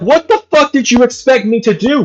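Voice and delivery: high, incredulous exasperation; mock-outraged retort; exasperated outburst. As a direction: throw the question back at her in disbelief. Retold outburst at partner.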